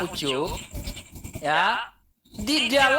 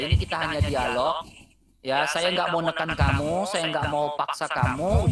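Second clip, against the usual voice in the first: mock tearful plea; 7 semitones lower than usual. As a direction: act hurt and tender, nearly crying. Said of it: "Aduh, mau nangis dia".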